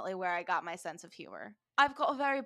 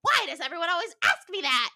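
higher, louder mock yell; 7 semitones higher, 5 dB louder than usual. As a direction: yell it in a huff, half-joking. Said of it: "And he yells".

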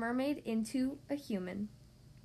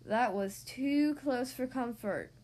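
sea witch voice; slower than usual. Acted. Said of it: "said the sea witch".

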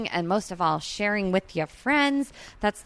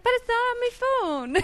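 high-pitched disbelief. Retold or imitated. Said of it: "And I was like".

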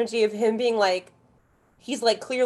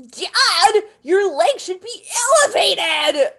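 high, loud urgent cry; imitating an eager son, high and loud; mock urgent; 10 semitones higher, 5 dB louder, slower than usual. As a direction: shout it like an eager kid medic. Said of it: "he's like".

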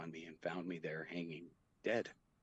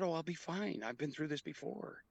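higher, pleading voice; 9 semitones higher than usual. Retold or imitated. Man begging nurse to admit him, pleading high. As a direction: beg to be let in, pitched up.

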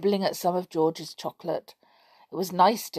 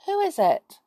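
calling out; 9 semitones higher than usual. Acted. Boy calling up tree.

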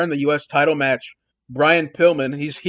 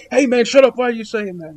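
acting out a flustered protest, louder and higher at first; mock freak-out; 5 semitones higher, 3 dB louder, faster than usual. Wrestler protesting to the man who gave him away, mock freak-out. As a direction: imitate a rattled wrestler, starting high then easing off. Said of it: "he's freaking out".

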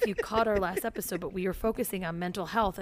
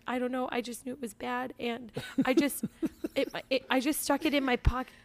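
lightly voiced small child, higher pitch; small, halting kid explaining herself; imitating a guilty six-year-old; confessing little girl; 3 semitones higher than usual.

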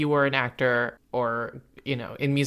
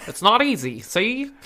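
bossy put-on clerk voice, pitched up; Peppy; 6 semitones higher, 5 dB louder than usual. Clerk bossing the new errand boy, mock-harsh. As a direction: order the kid around, emphatic and higher. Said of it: "treats him terribly. He's like".

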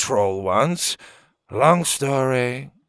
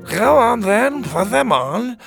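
much higher and louder eager urging; bursting to see the robes work; excited; 13 semitones higher, 7 dB louder, slower than usual. Acted. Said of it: "Farlin said excitedly".

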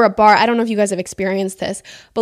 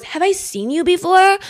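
higher-pitched mock pickup line; creepy guy; 9 semitones higher than usual. Imitating the man who comes up to her, creepy come-on voice. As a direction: imitate a creep sidling up to you. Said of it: "this guy, he comes up to me, he goes".

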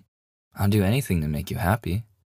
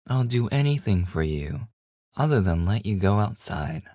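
cliché yandere line; 2 semitones higher than usual. Acted. Teasing partner quotes the cliché yandere line, mildly hammed-up. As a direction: recite the clingy yandere line half-mockingly. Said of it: "Clock line goes".

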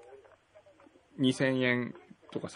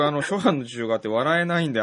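stifled giggles. Real, not acted.

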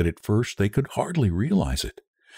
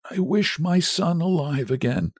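higher, dread-tinged pronouncement; reluctant wish; 9 semitones higher than usual. A narrator's reading. Husband obeys and wishes his son alive, reluctantly. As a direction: make the wish against your will.

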